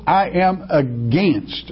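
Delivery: I am against, slow and weighty with the word "against" leaned on; emphatic against. Shown as a demonstration. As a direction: slowly press down on "against". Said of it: "and I want to emphasize".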